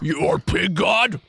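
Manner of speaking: awed squealy pig voice. Acted. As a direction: ask like a wondering pig. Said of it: "This is my pig voice".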